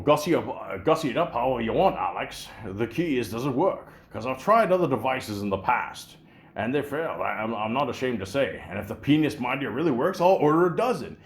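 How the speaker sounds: a hint of a smug Scottish film star; Sean Connery. Connery teasing the quiz host about the gadget, lightly voiced. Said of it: "Sean Connery would be like".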